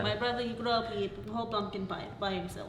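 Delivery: put-on light Slovak accent; a hint of a Slovak accent. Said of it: "like, this for the rest of it".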